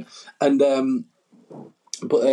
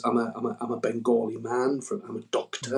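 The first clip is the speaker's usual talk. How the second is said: softer, lightly imitated stage intro; imitated fellow comic; 6 dB quieter than usual. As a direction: quietly mimic an explainy comic introducing himself.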